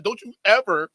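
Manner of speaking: playing a spoiled celebrity throwing a tantrum; lightly voiced diva, outraged at the old jet; mock Karen rant. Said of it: "I totally Karened out".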